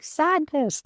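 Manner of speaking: put-on high, loud child's voice crying out one word; little kid's scream. An inner child screaming the answer at him. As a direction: shriek it like a small hurt kid. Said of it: "a little kid's voice even just screamed".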